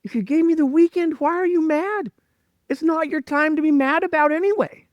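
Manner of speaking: a gentle voice pitched well above his own; voice of God. Retold or imitated. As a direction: speak calmly as God lovingly questioning him. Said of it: "And I hear this voice say".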